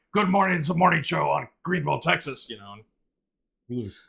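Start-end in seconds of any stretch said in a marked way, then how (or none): 0.2-2.5 mock over-the-top DJ voice, higher and louder. Retelling a morning show host who overdid it: imitating an overdone morning radio host. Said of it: "he kinda overdid it".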